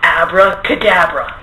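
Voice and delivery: slow, drawn-out magic word; magician incantation. Acted. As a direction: cast the spell slowly. Performing magic trick.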